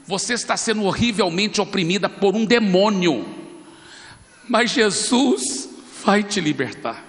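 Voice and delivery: firm public proclamation, slowing down; projected, deliberate preacher's declaration; speaking up for a crowd. Retold or imitated. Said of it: "eu falei bem alto pra multidão ouvir".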